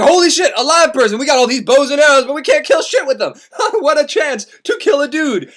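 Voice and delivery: thrilled at a chance to shoot a living man; excited centaur. Acted. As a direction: centaur spotting Dante, loud and gleeful. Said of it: "he's like".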